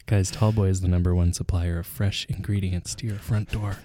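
lightly put-on sponsor read; mock ad read. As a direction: sell it like a pretend radio sponsor.

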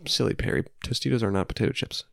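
mock heckler. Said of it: "those of you at home who are saying".

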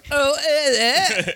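imitated throwing-up noise; mock retching. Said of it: "Alex just threw up on the microphone".

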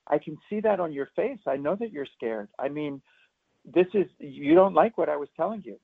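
put-on gently mirroring a scared child; empathetic parent. Shown as a demonstration. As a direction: soothe a frightened child by repeating her worry. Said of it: "you say".

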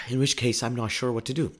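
ordinary delivery

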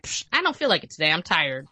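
fast, careless brush-off; dismissive. Pretend. Pretending to be a lazy savior, breezy dismissive tone. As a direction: shrug off saving the world. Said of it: "should I just be like".

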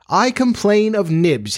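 high, eager tattling cry; boy telling on a playmate, eager; prompt cry. A narrator's reading. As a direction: jump in fast to tell on Nibs. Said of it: "he cried promptly".

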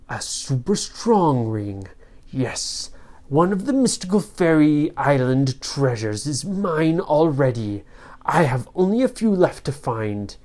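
lightly voiced smug villain; understated storybook villain; evil sorcerer, gloating. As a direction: gloat over your treasure. Sorcerer gloats over treasure.

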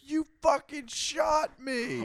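slow, high, outraged yell; Brett. Retold or imitated. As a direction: wail it like a shot cartoon guy. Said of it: "Brett is the guy that goes".

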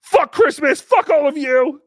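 loud imitated drunken outburst; angry drunk. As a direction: rant like a furious drunk at Christmas. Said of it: "if I was an angry drunk".

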